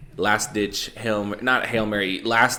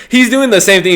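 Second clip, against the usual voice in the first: laughing; 12 semitones higher, 13 dB louder than usual. Real, not acted. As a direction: still laughing, much higher and louder. Laughing while watching fight.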